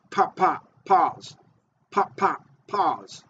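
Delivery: two quick "Pop, pop" beats, then a separate falling "pause"; lure cadence demo. Shown as a demonstration. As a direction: chant "Pop, pop", wait a beat, drop on "pause". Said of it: "you might need to change your cadence".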